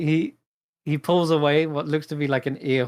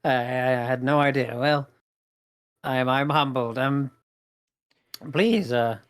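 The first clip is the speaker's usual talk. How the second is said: suddenly humbled. Acted. Goblin playwright hears his plays are famous, humbled. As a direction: go from taken aback to mildly bashful. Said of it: "His demeanor suddenly kind of, like, shifts from quite angry and aggressive to".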